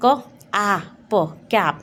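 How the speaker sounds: क, आ, प said as separate sounds, then blended into कैप; sounding out cap. Shown as a demonstration. Teacher blending a word for children. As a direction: segment कैप into phonic sounds, then join them. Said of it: "इसका phonic sound पढ़ोगे आप".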